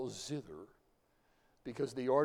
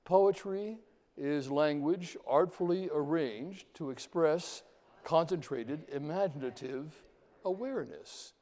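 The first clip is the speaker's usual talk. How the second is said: slow, measured recital of a definition; teacher reciting with the class; group recitation; 2 semitones higher than usual. Shown as a demonstration. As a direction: lead the class through it slowly. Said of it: "Recite it with me".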